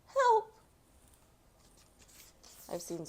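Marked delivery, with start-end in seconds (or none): 0.1-0.5 high, loud call for help; cry for help. Acted. Boy crushed at basketball cries out high and loud. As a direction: yell it out, mid-crash.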